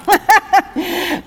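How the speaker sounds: high, loud burst of laughter. Real, not acted. Laughs at herself.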